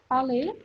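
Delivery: "palais" as "pa-leh", silent S; French-style "palais", AI as one vowel; correct French reading. Shown as a demonstration. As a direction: say "palais" ending on an open E. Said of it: "dibacanya jadi E".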